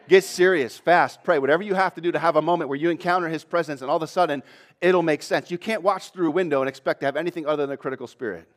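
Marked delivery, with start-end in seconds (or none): 0.1-2.4 louder, pressing command; urgent exhortation. Real, not acted. Preacher urging church to get serious, loud urging. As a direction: push them to act now. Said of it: "preacher urging the congregation".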